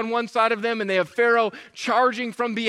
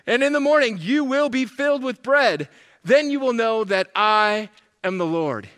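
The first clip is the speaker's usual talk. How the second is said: exasperated parent giving orders; loud, emphatic start, stern to the end; God; 4 dB louder than usual. Retold or imitated. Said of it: "This is God the parent".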